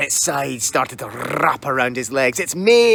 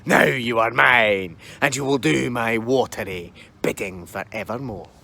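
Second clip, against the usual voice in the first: slow, booming water monster; menacing kelpie; 4 semitones lower, slower than usual. Acted. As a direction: gloat like a demon horse. Kelpie speaks.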